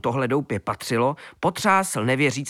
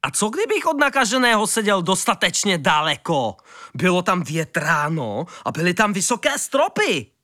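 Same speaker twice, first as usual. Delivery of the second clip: curious rabbit; 5 semitones higher than usual. A narrator's reading. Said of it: "zajímal se králík Kvítek".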